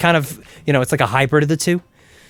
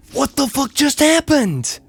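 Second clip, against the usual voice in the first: stunned disbelief; 10 semitones higher, slower than usual. Real, not acted. Sudden death in game.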